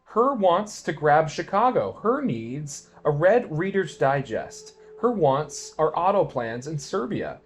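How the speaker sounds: mock-hysterical flag-waver; mock patriot rant. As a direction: parody the scared TV-watcher railing at Russians. Mocking TV-fed patriot rant.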